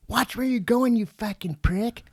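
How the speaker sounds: high-pitched retold insult from the angry lady; imitating angry insult. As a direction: throw the insult like the offended driver. Retold quarrel with other driver.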